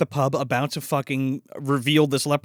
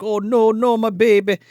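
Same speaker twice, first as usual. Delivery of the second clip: mock distress; 5 semitones higher, 4 dB louder than usual. Acting man finding daughter hurt.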